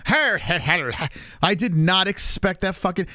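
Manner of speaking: helpless laugh breaking into the words; laughing in disbelief. Real, not acted. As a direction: crack up while protesting in disbelief. Bursts out laughing at video's voice.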